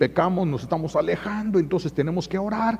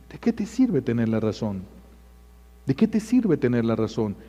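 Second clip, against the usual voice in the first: normal talking voice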